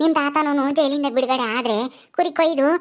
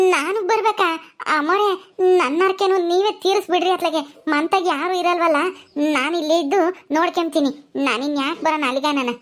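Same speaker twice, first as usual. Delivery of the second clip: reluctant servant Gulabi; 2 semitones higher than usual. Acted. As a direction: try to wriggle out of going, stretching the words.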